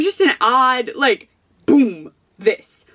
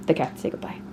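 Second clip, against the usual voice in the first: tiny whisper for the cats; 6 semitones lower, 8 dB quieter than usual. Pretend. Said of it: "Cats, say goodbye to the people".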